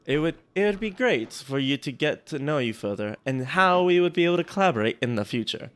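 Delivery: put-on botched German accent sliding into Russian; attempted German accent. Host reading an outreach email aloud, bad German accent. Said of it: "I'm going straight Russian".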